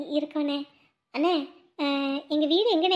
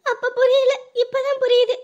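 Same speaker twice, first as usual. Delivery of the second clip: raised, tearful lament at the sight of the hut; tearful wailing; 3 semitones higher than usual. Acted. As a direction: wail in dismay, building to cries of woe. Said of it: "எதுக்கு இப்படி அழுவுற?". (அழுது புலம்பும் குரல்)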